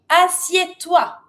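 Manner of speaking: imperative tone. Shown as a demonstration. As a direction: give it as a measured order. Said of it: "That means imperative tone".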